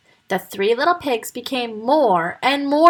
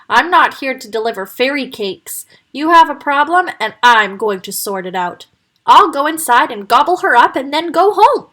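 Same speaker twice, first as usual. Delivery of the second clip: louder, gruff threat; roaring wolf; 3 semitones higher, 5 dB louder than usual. Acted. Wolf roaring at the piglets, furious. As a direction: roar down the piglets' doubts. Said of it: "roared the wolf".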